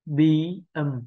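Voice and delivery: "Bí ầm" said light and quick, both syllables unstressed. Shown as a demonstration. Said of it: "hai âm không nhấn trọng âm". (đọc "Bí ầm" nhẹ, không nhấn)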